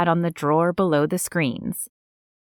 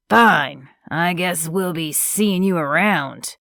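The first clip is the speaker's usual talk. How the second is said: sneering. Acted. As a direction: spit out a bitter parting. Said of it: "Gregory sneered".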